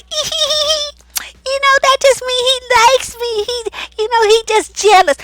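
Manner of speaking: mock a naive woman swooning over jealousy; giggly flattered woman. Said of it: "a lot of women be like".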